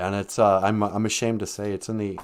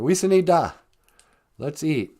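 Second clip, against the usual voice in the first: grandma calling; 6 semitones higher than usual. Retold or imitated. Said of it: "Grandma always said that".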